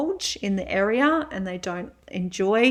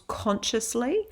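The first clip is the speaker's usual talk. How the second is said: consciously picked out with deliberate emphasis; stress on consciously; 3 semitones higher than usual. Real, not acted. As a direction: lean on the word consciously, rising at its end. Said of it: "I emphasize that word".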